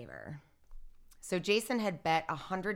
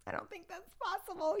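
a giggly, higher mock disbelief; laughing disbelief; 13 semitones higher than usual. Telling police they have the wrong man, laughing. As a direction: laugh it off as if it were a joke. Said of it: "So I was kind of, like, laughing".

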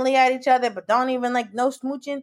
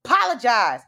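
lightly raised gloating encouragement ending in a shout; excited cheering; 3 semitones higher, slower than usual. Retold or imitated. Telling the TV hero to apologize, excited gloating. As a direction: relish his remorse, then cheer. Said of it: "I'm so excited about it".

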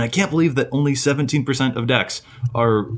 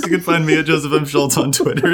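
laughing; 5 semitones higher than usual. Real, not acted. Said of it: "that really broke me".

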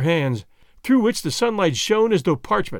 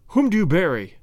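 hollow voice. A narrator's reading. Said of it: "said in a hollow voice".

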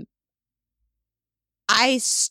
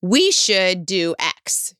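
passive aggressive; slower than usual. Shown as a demonstration. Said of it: "in a very passive aggressive way".

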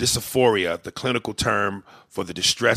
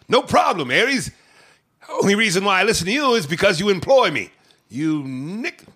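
1940s radio announcer; 9 semitones higher, 5 dB louder than usual. Acted. Radio persona jabs employer.

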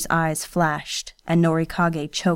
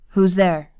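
a mild call, a bit louder; calling out to a timid step outside the office; 4 dB louder than usual. Acted. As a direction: call toward the door. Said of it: "he called".

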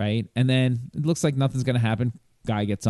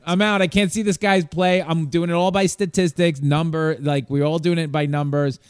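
exasperated outburst; 4 semitones higher than usual. Retold or imitated. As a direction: throw up your hands, then explain. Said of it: "I'm like".

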